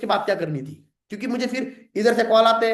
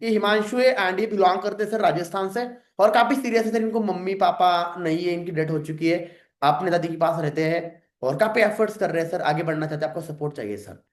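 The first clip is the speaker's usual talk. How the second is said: normal introduction; 4 semitones lower than usual. Shown as a demonstration. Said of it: "थोड़ा normally".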